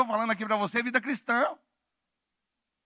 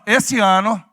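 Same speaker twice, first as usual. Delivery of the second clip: loud preaching call; shouted out loud; 7 dB louder than usual. Shown as a demonstration. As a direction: shout it to the person beside you. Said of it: "Fala bem alto".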